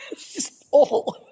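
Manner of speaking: laughing exasperated at the wind. Real, not acted. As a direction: laugh it off, half-shouting. Laughing at windblown hair.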